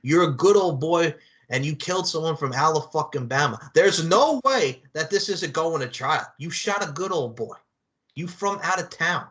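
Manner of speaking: lightly put-on streetwise lawyer act; brash movie lawyer. Lawyer riffing on My Cousin Vinny to a client, hammed-up. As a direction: play a hammed-up mock lawyer. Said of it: "a lawyer actually acts like that".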